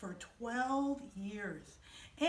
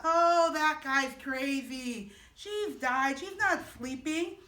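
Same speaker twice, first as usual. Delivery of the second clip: louder, slow scoffing jeer; mocking laughter; 2 semitones higher, 6 dB louder, slower than usual. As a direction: scoff at him like a mocking crowd. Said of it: "They laughed".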